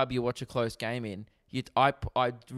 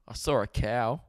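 sad monotone voice. Retold or imitated. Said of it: "in the saddest monotone voice".

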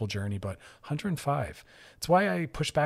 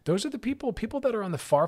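usual speaking voice

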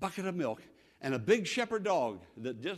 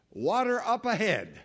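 excited announcement, raised and far-carrying; scout calling out; 5 semitones higher, 5 dB louder than usual. Acted. Scout returning to thirsty travelers, excited call. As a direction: call back good news to the crowd. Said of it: "when the scout came back and said".

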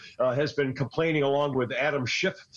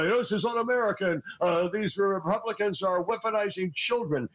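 higher, sanctimonious mock complaint; mock indignation; 4 semitones higher than usual. Host mocking the president with higher mock indignation. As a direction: parrot the president's whining, pitched up. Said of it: "is complaining that".

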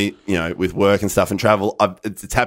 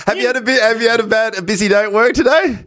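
radio host voice; 10 semitones higher than usual. Pretend. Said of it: "this feels like Talkback Radio".

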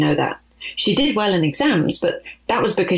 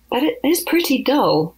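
less certain; 7 semitones higher than usual. Acted. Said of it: "suddenly sounding less certain".

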